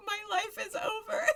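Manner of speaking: high, mock-tragic wail with a sob; mock despair. Son at the chess table, hammed-up sobbing wail. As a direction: wail it like a hammed-up heartbroken teen. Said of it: "and Makoto's like".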